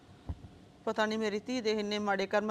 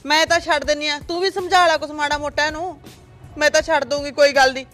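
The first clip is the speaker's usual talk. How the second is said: loud aggrieved complaint; 4 dB louder than usual. Acted. Mother's loud grievance in quarrel.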